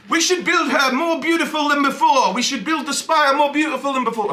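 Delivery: a comic attempt at a French accent; mock French accent. Comedian doing Macron's speech in a mock French accent. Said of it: "I can't do a French accent, but I'm gonna try".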